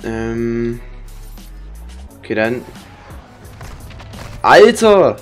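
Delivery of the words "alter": high, loud furious outburst; berserk rage. Real, not acted. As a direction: blurt it out in a burst of fury. Sudden outburst during the match.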